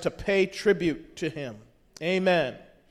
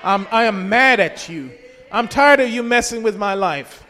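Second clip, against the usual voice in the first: raised voice, firmly defiant; mild defiant shout; 4 dB louder than usual. Acted. Preacher rebukes the devil for the congregation, mildly shouting. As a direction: tell him off with some force. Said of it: "shout at the devil and say".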